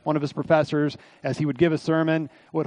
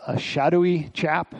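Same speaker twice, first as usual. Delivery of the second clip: lightly imitated British accent, drawn out slowly; a hint of British accent; Alistair Begg. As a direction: borrow a preacher's British phrasing, slowly. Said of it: "I don't know what his accent is, British or whatever".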